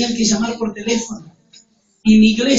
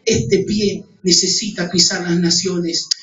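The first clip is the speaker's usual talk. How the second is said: retold prayer; 4 semitones lower, slower than usual. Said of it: "yo le dije".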